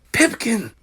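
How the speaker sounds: high hoarse cry of alarm. Acted. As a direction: cry the name out. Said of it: "cried everyone hoarsely".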